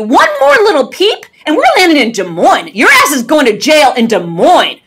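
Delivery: high, loud commanding scold; stern teacher voice. Retold or imitated. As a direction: lay down the law like a strict teacher to an unruly kid. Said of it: "in my best teacher voice".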